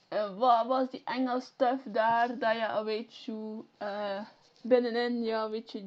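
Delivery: loud, broad Flemish dialect read. Shown as a demonstration. Showing viewers his Flemish dialect, loud and broad. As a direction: say it in thick local Flemish. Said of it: "I'm gonna try to do it in my dialect".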